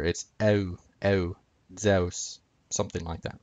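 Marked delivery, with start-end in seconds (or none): 0.4-2.4 eu as eh sliding into oo, then Zeus as zeh-oos; gliding diphthong. Shown as a demonstration. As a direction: glide the eu inside Zeus. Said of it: "glide them together".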